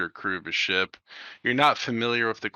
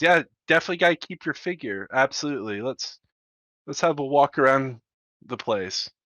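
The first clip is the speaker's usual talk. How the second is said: eager agreement; 3 semitones higher, faster than usual. Acted.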